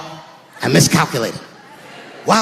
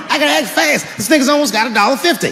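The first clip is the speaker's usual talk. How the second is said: urgent; 4 semitones higher, faster than usual. Acted. Urgent retold panic.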